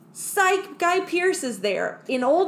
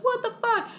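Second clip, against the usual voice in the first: mock shock; 12 semitones higher than usual. Crew shocked again.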